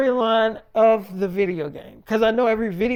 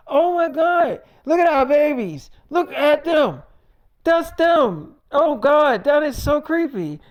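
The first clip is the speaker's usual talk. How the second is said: higher and louder, awed then creeped out; amazed wife; 7 semitones higher, 3 dB louder than usual. Retold or imitated. Wife seeing their babies in the game, high and awed.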